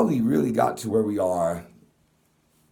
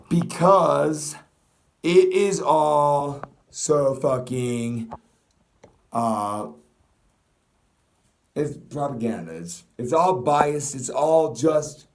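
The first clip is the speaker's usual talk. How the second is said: angry rant; 3 semitones higher, 4 dB louder, slower than usual. Real, not acted.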